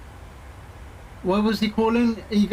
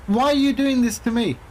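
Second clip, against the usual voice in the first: higher-pitched mock reproach; retold indignant challenge; 4 semitones higher than usual. Teller confronting a scam caller on the phone, indignant retelling. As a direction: plead the point to him, higher.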